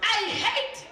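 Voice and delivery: angry mother pleading at a public meeting. Real, not acted. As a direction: let the anger push the voice up. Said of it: "I'm angry and I hate Kekana".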